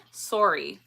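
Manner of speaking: Canadian "Sorry" with a falling tune; Canadian pronunciation. Shown as a demonstration. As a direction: round the first vowel of "Sorry" like "sore". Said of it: "Is that Canadian?".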